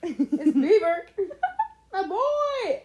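mock shout. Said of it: "mocking the retold prison shout".

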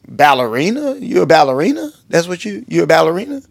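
mildly puzzled, innocent asking; naive questioning. Retold or imitated. Naive pastor guesses she dances ballet, innocent questioning. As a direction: ask it as an innocent guess, rising at the end. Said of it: "me being naive".

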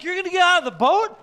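high, loud, fast scoffing question; mocking disbelief. The other disciples jeering at Peter in the boat, loud and fast. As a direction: jeer at him for trying.

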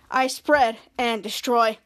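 low, slow robotic villain drone; slow low monotone computer virus; menacing virus voice. Acted. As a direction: drag each word out like a cold machine. Kid retells villain virus line.

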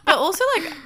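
high laughing restart. Real, not acted. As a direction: laugh then carry on. Laughing interruption.

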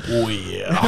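low Midwestern housewife voice; Midwestern wife. Acted. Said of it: "she's a Midwestern anal wife".

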